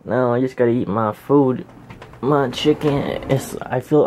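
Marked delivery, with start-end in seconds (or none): 2.2-3.3 slow and aching; sore muscles. Real, not acted. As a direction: drag it out while sore. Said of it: "I'm so sore right now".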